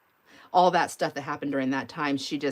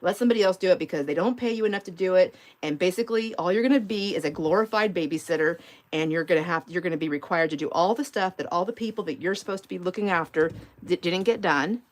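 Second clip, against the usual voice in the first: louder, insistent motherly advice; firm advice; 4 dB louder than usual. Retold or imitated. Mom lecturing her daughter on jobs, louder and insistent. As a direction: lay down the law to your daughter. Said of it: "And I told her".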